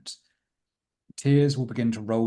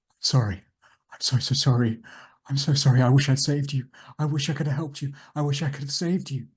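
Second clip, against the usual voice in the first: louder, grieving apology, repeated sorrys; a weeping man's apology, louder and higher; tearful apology; 4 semitones higher, 4 dB louder than usual. Acted. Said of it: "looks sorrowful ... so sad".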